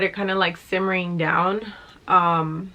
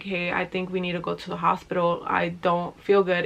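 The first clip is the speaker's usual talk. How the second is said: softer, hurried, barely able to get the words out; weak, struggling voice; 5 dB quieter than usual. Retold or imitated. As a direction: mildly act out someone too unwell to talk. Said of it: "it was very hard for me to talk".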